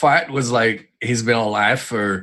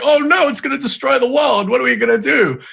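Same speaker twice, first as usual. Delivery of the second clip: mock panic; 13 semitones higher, 4 dB louder than usual. Imitating everyone panicking.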